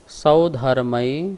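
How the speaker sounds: slow chanting, leading the call; call and response recitation. Shown as a demonstration. Teacher leading students in reciting the sutra. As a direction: lead the chant, drawn out. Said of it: "एक बार हम उच्चारण कराएंगे".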